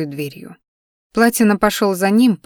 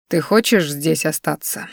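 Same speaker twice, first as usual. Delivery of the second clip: ordinary delivery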